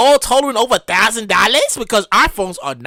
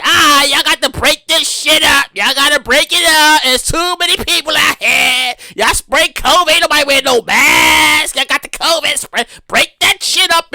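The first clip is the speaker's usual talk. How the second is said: mock cop order; 3 semitones higher than usual. Voicing police breaking up crowd.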